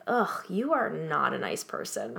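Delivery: soft, breathless whisper, slowed; whispered aside. Retold or imitated. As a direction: whisper the insult under your breath. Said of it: "I was like".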